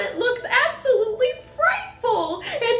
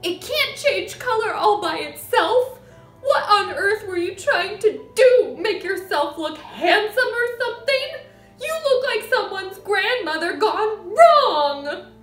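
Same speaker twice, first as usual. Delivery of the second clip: high, loud scolding tirade; crying out; 11 semitones higher, 10 dB louder than usual. A narrator's reading. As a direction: shriek scorn at your husband. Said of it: "the mother cried".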